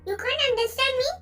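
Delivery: exasperated. Acted. Frustrated lover calling the vampire a fool, exasperated. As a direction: burst out with a slow, rising insult. Frustrated insult in acted quarrel.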